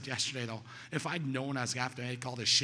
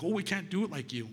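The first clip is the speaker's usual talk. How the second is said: higher-pitched imitation of protesting newcomers; mock protest; 5 semitones higher than usual. Guys objecting to their mentor, mock protest.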